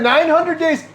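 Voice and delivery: laughing. Real, not acted. Laughing at the long wait.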